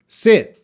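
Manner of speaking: short lax i in "sit". Shown as a demonstration. Teacher modelling "sit" for the class. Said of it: "I'm gonna say it again".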